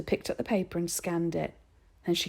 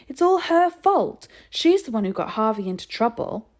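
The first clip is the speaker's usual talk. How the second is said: shouted accusation; 5 semitones higher, 7 dB louder than usual. A narrator's reading. Boy shouting that Dinah caused the trouble, loud. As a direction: hurl the blame. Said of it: "Lloyd shouted".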